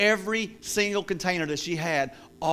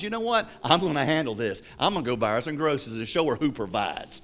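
imitated scornful scheming; 4 semitones lower than usual. Atheist planning to show her who provides, low scornful scheming. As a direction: plot it under your voice, lightly acted.

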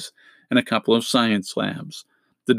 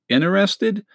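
a high, leaping "Interested?"; eager disbelief; 10 semitones higher than usual. Acted. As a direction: jump up as if the question is absurd. Friend jumps at robot offer.

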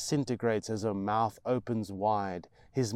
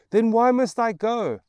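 put-on high, loud boy's plea; desperate child; 13 semitones higher, 13 dB louder than usual. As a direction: push back like a frightened little boy. Boy pleading with mother.

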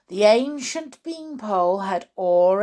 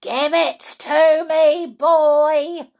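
loud, raised, forceful demand; yelling grandma; 7 semitones higher, 9 dB louder, slower than usual. Acted. Grandma demands the cup from George, yelling. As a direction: yell each word as an order. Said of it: "yelled Grandma".

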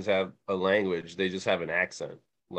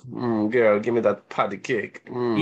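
slightly louder, hammed-up lustful come-on; mock come-on; 4 dB louder than usual. Showing friend how you might say it, mock flirtatious. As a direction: play-act wanting it, with relished hums. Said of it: "you might say it like that".

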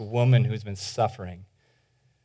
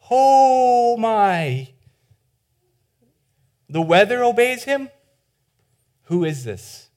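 awed disbelief; 9 semitones higher, slower than usual. Acted. Disciples amazed at the calm.

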